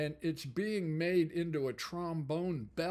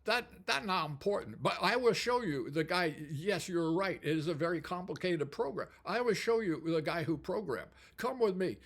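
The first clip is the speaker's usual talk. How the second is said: imitated Japanese accent, raised pitch at first; Japanese factory host; 3 semitones higher than usual. Factory host answering the visitor's question, imitated Japanese accent. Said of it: "He said, he said".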